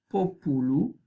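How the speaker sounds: "populu" stressed on the first syllable, PO-pu-lu; antepenultimate stress. Shown as a demonstration. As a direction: hit the PO in "populu", end rising. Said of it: "el acento recae en la tercera desde el final".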